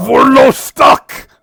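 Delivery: loud, high, slow cry of being stuck; a creature wailing for help, stretched out; trapped Vorlo shouting from the floor, high and slow; stuck creature yell. Acted. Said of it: "Oh, that's kinda cute".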